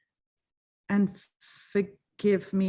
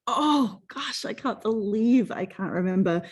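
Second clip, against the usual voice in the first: frustrated; 3 semitones higher than usual. Retold or imitated. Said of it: "the kind of frustrated sort of".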